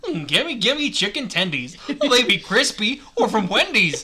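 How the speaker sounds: Goofy impression. Performer does a requested silly rhyme, Goofy voice. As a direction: ham it up as a pleading cartoon dog. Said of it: "it's just Goofy".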